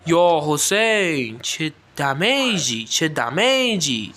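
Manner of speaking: stretched-out slow amazement; awed exclamation. Real, not acted. Gamer amazed by his hero's huge damage, slow and drawn out. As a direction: drag each word out in disbelief.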